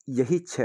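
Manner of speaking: छ hit with extra force; demonstrating a stressed छ. Shown as a demonstration. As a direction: lean hard on the sound छ to show emphasis. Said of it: "जोर देना है कि".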